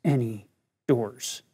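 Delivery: low, slow, measured command; forceful command. Retold or imitated. Inner prompting stops the teacher mid-refusal, forceful low command. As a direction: let each word land slowly, low and firm. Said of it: "four words came very forcefully".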